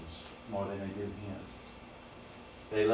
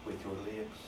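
soft voice of God; 7 dB quieter than usual. Acted. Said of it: "He said".

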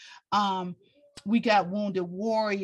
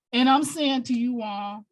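getting emotional; faster than usual. Real, not acted. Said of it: "I don't mean to be getting emotional".

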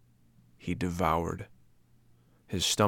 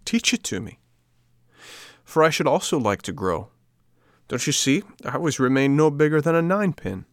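put-on higher, louder boyish puppet voice; eager boy puppet; 6 semitones higher, 5 dB louder than usual. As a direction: plead like a small impatient boy. Pinocchio's voice in dialogue.

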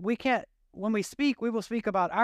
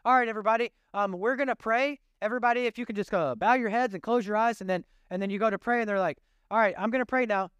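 prayer voice; 3 semitones higher than usual. Retold or imitated. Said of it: "a different prayer voice".

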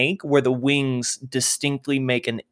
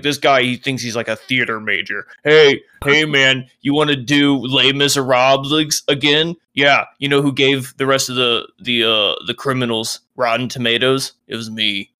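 lightly taunting prison guard; mocking guard. Guard heckling a theater major prisoner, mildly mocking.

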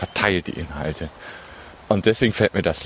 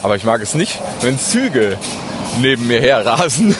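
louder over passing train noise; raised voice; 2 semitones higher, 5 dB louder than usual. Real, not acted. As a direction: speak up over a rushing train. Train rushing past while talking.

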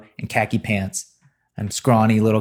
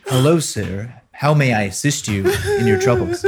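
prim, very high butler voice; overly proper, pitched way up; mock polite gentleman, high and prissy; mock posh translation; 4 semitones higher than usual. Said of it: "translate redneck".

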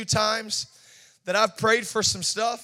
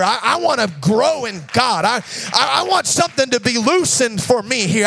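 rising, louder frustrated complaining prayer; a believer griping to God, getting louder; aggravated complaint; 5 dB louder than usual. Acted. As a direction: pour out your impatience to God.

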